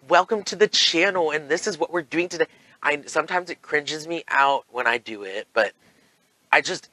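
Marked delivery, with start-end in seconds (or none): 0.1-2.5 lightly hammed-up YouTuber host; high-pitched mock welcome to viewers; a touch of announcer showiness; overly peppy channel intro. Shown as a demonstration. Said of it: "That overly, like".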